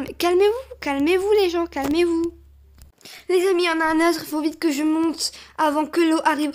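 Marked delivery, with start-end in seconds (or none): 0.0-2.3 raised, insistent calming plea; insistent appeal. Real, not acted. Player to the panicking crowd, insistent appeal. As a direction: urge them repeatedly to settle down.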